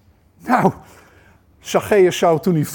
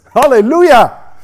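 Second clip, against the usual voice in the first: joyful exclamation; 7 semitones higher, 9 dB louder than usual. Real, not acted. Preacher exclaiming praise.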